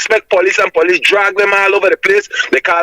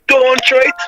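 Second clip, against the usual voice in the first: pitched-up retold plea, lightly voiced; mild imitation of Emmanuel's cry, higher; 7 semitones higher than usual. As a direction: echo the warning higher, a touch of pleading. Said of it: "all you could hear is Emmanuel voice saying".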